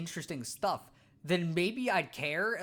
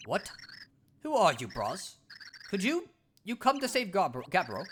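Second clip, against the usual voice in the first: caveman Cragnon voice. Acted. Scared Cragnon hiding from the Floro Sapiens, blunt caveman voice. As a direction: bark it out like a dim, eager caveman.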